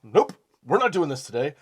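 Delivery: mock firm refusal. His clenched gut refusing the news, mock firm shout. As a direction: slam the door, comic refusal. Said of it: "my asshole went".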